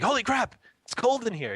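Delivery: high squeaky voicing of a shocked newborn; newborn's voice. Father voicing his newborn complaining about the cold, high squeak. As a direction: speak as a baby startled by the cold. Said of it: "You're like".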